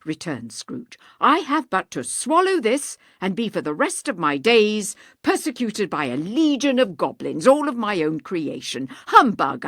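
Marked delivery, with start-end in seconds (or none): 1.2-8.9 put-on scoffing old miser. Voices Scrooge scoffing. 9.1-9.7 "Humbug" barked loud with a falling end; scornful humbug. Acted. Scrooge dismisses ghost.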